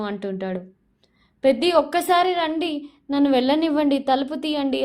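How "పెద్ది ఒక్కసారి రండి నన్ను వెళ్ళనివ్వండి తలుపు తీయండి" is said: retold crying yell. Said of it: "ఏడుస్తూ అరుస్తూ ఉంటుంది".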